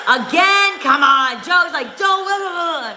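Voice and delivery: teasing a fighter through a fit of laughter; high laughing mockery. Real, not acted. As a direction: laugh it out in a high mocking squeal.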